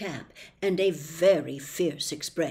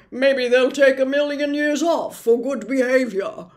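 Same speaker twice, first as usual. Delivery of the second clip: nervous humbug; 5 semitones higher, 7 dB louder than usual. Acted. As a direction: bluster politely while laughing nervously. Humbug calls out.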